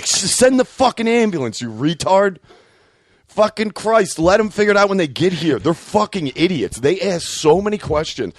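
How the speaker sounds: high-pitched, worked-up complaint; comic indignation; exasperated rant. Acted. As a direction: rail at clueless operators, pitch riding high. Ranting at nine one one operators.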